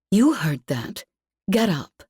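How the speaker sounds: a light snap, lightly voiced; curt order to the ones on the ground; snapping. A narrator's reading. Customer snapping at the two entertainers. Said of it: "she snapped at the two entertainers".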